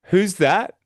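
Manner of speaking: a caller at the door catches her off guard; surprised homeowner. Retold or imitated. Homeowner at the door, slow, high and puzzled. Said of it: "They might go".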